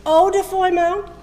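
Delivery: rapid auctioneer patter. Acted. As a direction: rattle off bids like an auctioneer. Auction sales pitch.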